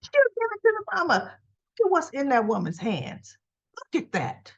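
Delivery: talking through real laughter; helpless laughter. Real, not acted. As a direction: squeeze the words out while cracking up. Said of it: "I had to laugh".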